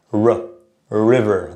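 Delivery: "river" with the R made at the back of the mouth; English R. Shown as a demonstration. Teacher shows where English R sits, back-tongued R. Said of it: "the tongue is in the back of the mouth".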